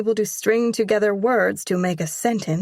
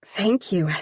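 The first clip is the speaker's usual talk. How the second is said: sincere; 3 semitones higher than usual. Acted. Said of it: "with all the sincerity I possess".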